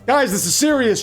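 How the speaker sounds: snapping. Acted. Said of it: "James snaps".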